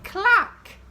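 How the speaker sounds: high, loud click and clack; noisy sound words. A narrator's reading. Reading to children, sounding out the noises. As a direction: pop each sound out sharply.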